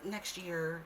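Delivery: slow and offhand dismissal; mock dad brushing off his daughter; imitating dad leaving. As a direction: brush her off slowly. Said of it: "he was like".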